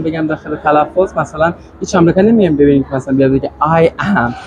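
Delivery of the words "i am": "I am" as two separate words; full uncontracted form. Shown as a demonstration. Teacher showing the exam form, "I am" said in full. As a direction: give "I am" both full vowels, unjoined. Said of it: "برای آزمون آی اس شاید اینجوری باشه".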